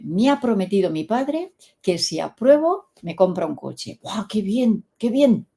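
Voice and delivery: lightly acted schoolboy enthusiasm; lads' chat. Schoolboy telling his mates about dad's promise, lightly acted lads' chat. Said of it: "como suelen hablar ellos".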